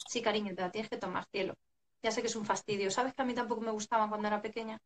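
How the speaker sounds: put-on soft, loving reassurance to a child; tender parent. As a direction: soothe the little one kindly. Parent gently comforting child.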